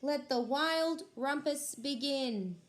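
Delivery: high excited proclamation; Max crying out. Acted. Max the king starting the rumpus, high and excited. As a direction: kick off the party with glee. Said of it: "cried Max".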